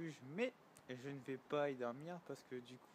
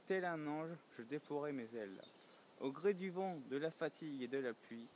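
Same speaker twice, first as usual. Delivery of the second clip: measured reading of a poem in rhyming phrases; poem recitation; 2 semitones higher than usual. Acted. Pilgrim reads his freshly written poem to viewers, poem recitation. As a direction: recite your own verse line by line, pausing after each phrase.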